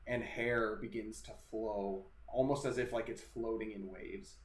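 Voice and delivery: slow, deliberate ghost-story narration; drawn-out narration with suspenseful pauses; game master's scene setting. Acted. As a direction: describe the apparition piece by piece, unhurried.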